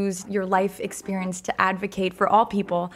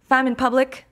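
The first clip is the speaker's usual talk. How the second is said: Quebec French accent on Femme in Public, higher and brighter; French Canadian accent; 5 semitones higher, 4 dB louder than usual. Shown as a demonstration. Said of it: "which I'm saying with my French Canadian accent".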